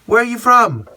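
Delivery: sugary-high imitation of a singer charmed by a fan; gushing singer. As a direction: play the gracious star who warms to the fan. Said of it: "Or she's like".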